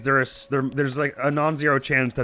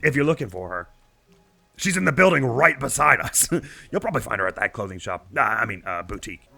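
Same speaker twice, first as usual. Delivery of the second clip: chatty, bragging village father; proud villager dad; 2 semitones higher than usual. Acted. Villager father brags to traveler, chatty and proud. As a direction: boast about your daughter to a traveler.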